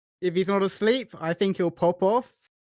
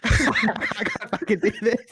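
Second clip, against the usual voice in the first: cracking up mid-attempt; helpless real laughter; real laughing; 3 semitones higher than usual. Real, not acted. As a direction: break character, laughing through the words. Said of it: "I can't do it without laughing".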